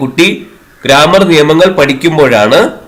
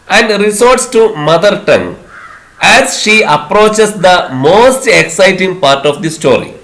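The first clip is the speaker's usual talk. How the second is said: very slow, careful question dictation; slow classroom question reading; exam question reading; 3 semitones higher, much slower than usual. Acted. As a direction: read it out word by word for the class. Reads exam question slowly.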